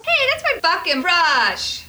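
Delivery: loud protest. Real, not acted. Grabbing back his brush.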